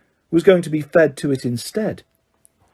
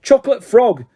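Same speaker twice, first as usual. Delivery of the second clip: higher, louder frustrated yell; yelled password hopping on one leg; angry yell; 8 semitones higher, 4 dB louder than usual. A narrator's reading. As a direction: shout it in pain and anger. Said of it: "he yelled angrily".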